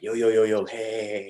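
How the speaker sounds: mock hail to stop someone; calling after someone. Lead actor hailing the kid who is leaving, calling out.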